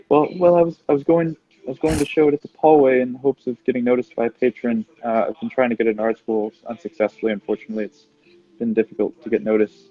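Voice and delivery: sheepish. Acted. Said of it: "she says sheepishly".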